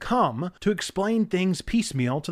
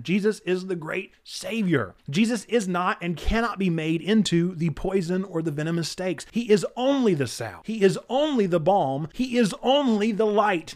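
rising sermon cadence, leaning on only; preaching. Acted. Nerdy pastor preaching to his viewers, sermon voice. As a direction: preach it from the pulpit, building each line. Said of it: "let me step off my preaching soapbox".

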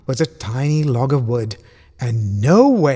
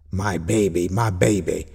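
low, soothing uncle; tender comforting; 6 semitones lower than usual. A narrator's reading. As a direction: soothe a crying child, low and gentle. Uncle comforts crying Roma.

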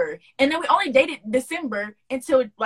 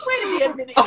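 suspicious. Retold or imitated. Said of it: "I said".

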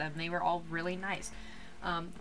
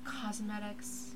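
soft spa whisper; 8 dB quieter, much slower than usual. Pretend. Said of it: "talk like I'm in a yoga spa video".

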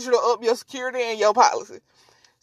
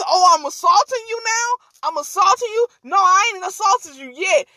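higher-pitched sarcastic comeback; mock indignant challenge; 5 semitones higher than usual. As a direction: imitate her throwing the accusation back at him. Retold woman mockingly challenges partner.

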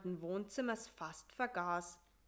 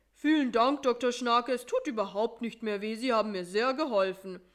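much louder, hurried thanks; loud quick burst of relief to the doctor; relieved and excited; 3 semitones higher, 8 dB louder, faster than usual. Acted. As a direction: blurt out thanks on the way out the door. Relieved patient rushing out.

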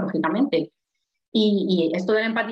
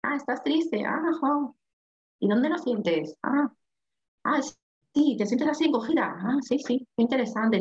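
imitated soothing listener; 2 semitones higher than usual. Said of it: "yo también empiezo a hablar así".

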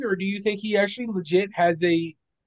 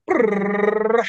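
mouth drum roll. Pretend. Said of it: "can I get a drum roll".

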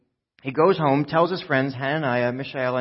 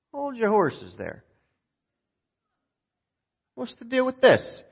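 slow cowboy drawl, pitched up; John Wayne; 9 semitones higher than usual. Acted. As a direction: draw it out like an unfazed western hero. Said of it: "John Wayne just slowly cocks his head".

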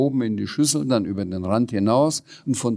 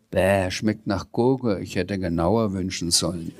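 disgusted; 4 semitones lower than usual. Acted. Tastes cucumber ice cream.

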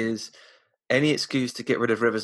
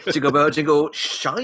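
louder, higher parody catchphrase; mock overexcited Imagineer; 5 semitones higher, 5 dB louder, slower than usual. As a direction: stretch out SHITE like a silly slogan. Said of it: "obviously the overexcited Imagineer".

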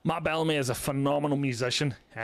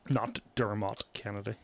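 "Dermot" as der-MOT, full second vowel; low-key der-MOT for "Dermot"; mock stress on MOT; 4 semitones lower, 5 dB quieter than usual. Callback to the friend's blunder, "Dermot" as der-MOT. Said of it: "stress of the mot".

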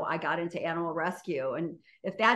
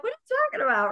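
high-pitched, retold disbelief; mock incredulous retort; 12 semitones higher, much faster than usual. Telling a friend what are you talking about, mock incredulous. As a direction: toss back a puzzled question, pitched way up.

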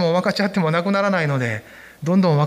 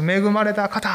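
greeting demo; 3 semitones higher, slower than usual. Shown as a demonstration. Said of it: "ちょっと隣の人に言ってください".

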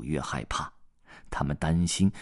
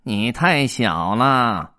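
slow, louder stern scolding; slow fierce put-down; fierce cat; 4 semitones higher, 6 dB louder, much slower than usual. Acted. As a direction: lay down the law like a bossy cat. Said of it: "猫凶巴巴地说".

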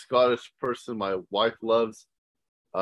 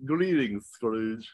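lightly put-on cartoon crook voice; slow cartoon henchman greeting, lightly done; Beagle Boy; much slower than usual. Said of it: "doing a Beagle Boy".

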